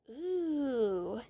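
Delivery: slow, drawn-out teasing fright; sarcastic mock fear. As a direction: stretch it out to mock the bully. Taunting the villain toy.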